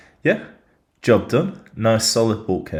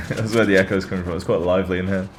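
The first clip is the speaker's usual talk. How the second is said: echoey room. Real, not acted. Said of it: "if I sound a bit echoey".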